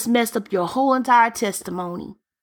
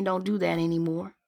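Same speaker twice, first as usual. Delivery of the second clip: much softer, gently forbidding; soft voice of God; 4 semitones lower, 8 dB quieter than usual. Retold or imitated. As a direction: hush it like a calm command. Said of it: "God is sitting here and saying".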